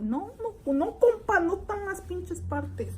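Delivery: high, cheeky talk-back; mock sassy retort. To the boss asking for parts, mock sassy high retort. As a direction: sass the boss, hammed up.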